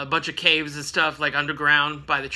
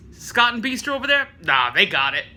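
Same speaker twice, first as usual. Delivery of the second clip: mock trash talk. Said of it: "kinda trash talking them".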